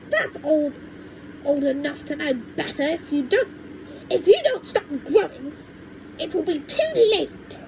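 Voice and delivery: put-on high, cranky old woman lecturing; cranky grandma. Grandma scolds George about growing, in a high cranky voice. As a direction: scold like a mean little granny.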